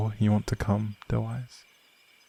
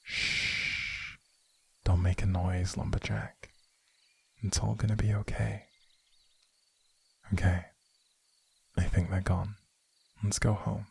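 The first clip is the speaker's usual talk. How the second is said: hushed whisper, barely voiced; soft whisper to calm the horse; 9 dB quieter than usual. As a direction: whisper so the posse can't hear. Hiding in cave from posse.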